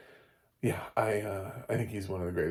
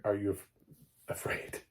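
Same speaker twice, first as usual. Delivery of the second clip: ordinary talk, nothing marked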